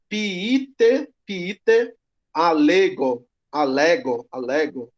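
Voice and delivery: "piite" as pi-i-te, "alego" with no h; "alego" repeated without the h sound; alternative Greek pronunciation. Shown as a demonstration. Teacher demonstrating another pronunciation option, unhurried. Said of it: "pode dizer assim".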